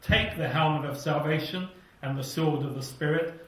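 normal talking voice

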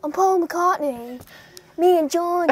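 playful impression of a famous musician, Liverpool accent. Introducing himself as a member of a famous band, in a mock Liverpool accent. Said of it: "I'll be Paul".

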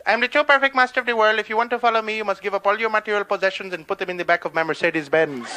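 sing-song mock guru, accented; Guru Maharaji. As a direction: recite the guru's spiel in a put-on accent. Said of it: "Dig his spiel".

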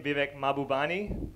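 normal talking voice

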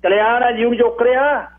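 high, boastful elder's voice; high-pitched, puffed-up pride; self-important old man. A narrator's reading. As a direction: brag as if you had friends at the very top. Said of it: "ਬਾਬੇ ਨੇ ਅੱਖਾਂ ਚੜਾ ਕੇ ਗੱਲ ਕੀਤੀ ਜਿਵੇਂ".

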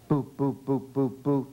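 bouncy boo boo syllables shown for copying; modeled boo syllables. Shown as a demonstration. Therapist showing Dina a run of boo syllables. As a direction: lift each boo clearly for the child. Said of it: "Can you do".

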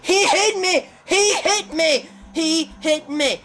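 half-laughing protest at the hit; laughing disbelief. Real, not acted.

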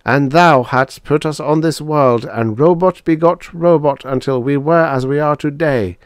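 high, loud, solemn robot chant; earnest devotional recital; solemn recitation. A narrator's reading. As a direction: intone it like scripture, pitched high. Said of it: "added two oh four solemnly".

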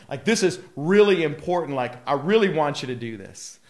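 earnest, insistent appeal in another's voice; emphatic. Retold or imitated. Preacher voicing Jesus urging people to pray, emphatic. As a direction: press each point home, mildly emphatic. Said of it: "emphatic about it".

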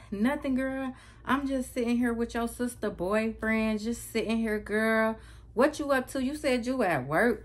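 high-pitched imitation of mom rambling; talking weird. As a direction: mimic mom making oddly casual small talk. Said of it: "she just talking in circles and it's weird".

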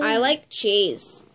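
put-on slow, drawn-out American accent. Friend attempting a test phrase, slow American accent. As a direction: exaggerate an American accent, slowly. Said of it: "let's do an American accent".

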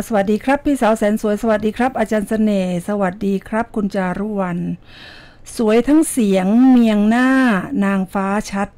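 rhythmic Thai verse read in measured phrases; poem recital. Shown as a demonstration. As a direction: recite it like a poem, pausing between lines. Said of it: "เดี๋ยวอ่านกลอนจากคุณเสือหวานเจี๊ยบนะคะ".

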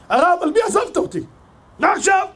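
high, tearful plea at the grave; crying widow. Acted. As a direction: cry out to the dead rabbi in grief. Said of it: "בכתה, בכתה". (אלמנה בוכה בקול גבוה על הקבר)

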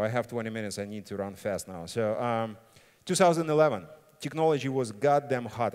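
normal talking voice

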